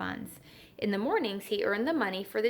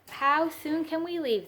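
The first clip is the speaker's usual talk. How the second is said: eager cry; 7 semitones higher than usual. A narrator's reading. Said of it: "they cried".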